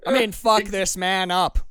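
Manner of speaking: put-on self-correcting into an American accent; forced American accent. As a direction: cover the Scottish slip with American. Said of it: "trying to sound like an American".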